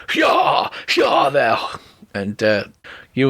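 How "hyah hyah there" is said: shouting hyah. Acted. GM voicing Rick urging his horse to gallop, high shout. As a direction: yell it to make the horse run. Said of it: "You say".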